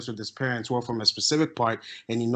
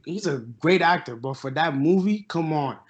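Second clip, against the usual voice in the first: usual speaking voice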